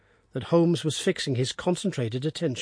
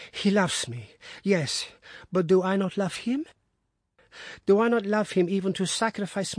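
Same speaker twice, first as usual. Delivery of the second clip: high, pleading, wounded voice; anguished wife; 7 semitones higher than usual. Acted. Wife pleading to Watson about her husband, high and anguished. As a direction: plead the depth of her love.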